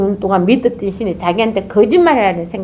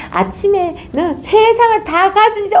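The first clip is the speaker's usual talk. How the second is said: excited shout; 11 semitones higher than usual. Retold or imitated. Shout heard.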